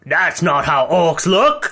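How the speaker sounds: a slow, lightly voiced orc complaint; a hint of an offended orc; mock Torug voice. Orc Torug objecting to how orcs look, slow. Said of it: "Torug ... is like".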